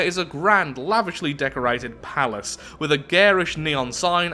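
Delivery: deliberate storytelling, slowing to the last words; measured reading with stressed descriptive words; event text narration. Acted. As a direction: narrate it like a tale being read out. Reads event text aloud.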